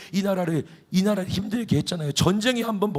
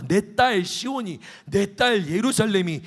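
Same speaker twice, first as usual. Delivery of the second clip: slow; 3 semitones higher, slower than usual. Acted. God addresses the Assyrian king.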